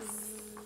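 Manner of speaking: soft buzzing "zzz"; mock snore. A narrator's reading. Campers asleep at home, soft mock snore. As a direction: buzz it softly like cartoon sleep. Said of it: "snored Sam, Pam, Will, and Jill".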